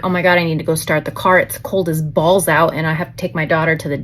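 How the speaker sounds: reliving the flustered rush, lightly; worried mom retelling her panic, half-hearted; retold panic. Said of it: "I'm starting to panic at this moment".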